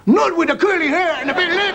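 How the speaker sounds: high, loud, laughing divine retort; God answering the boy's prayer with a laugh; booming God. Retold or imitated. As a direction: bellow it as a mocking God. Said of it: "and he said".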